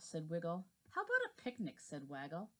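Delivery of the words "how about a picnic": bright high character voice. Acted. Character line in read story.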